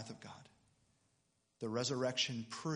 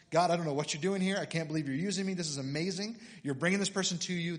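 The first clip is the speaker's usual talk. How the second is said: excited, higher-pitched gush to God; amazed prayer; 4 semitones higher, 4 dB louder, faster than usual. Retold or imitated. Preacher replays thanking God for a quick convert, excited. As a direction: re-enact being thrilled and amazed.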